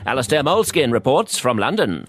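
booming news presenter read; newscaster voice. Acted. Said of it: "my newscaster voice".

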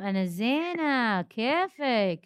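slow, high, tender greeting; warm greeting. Real, not acted. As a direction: welcome her sweetly and slowly.

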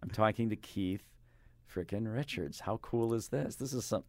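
mildly giddy, hushed fan disbelief; retold starstruck awe. Host recalling his thoughts on meeting his idol, mildly starstruck. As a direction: replay a touch of fan amazement. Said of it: "And I was like".

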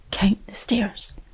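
put-on soft whisper of a child's plea; hushed little boy voice; whispered child's request. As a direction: breathe it like an eager child. Child asking while skipping.

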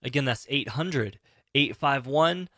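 slow, clear phone number read; infomercial. Acted. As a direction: announce the number slowly for listeners. Reads call-in number.

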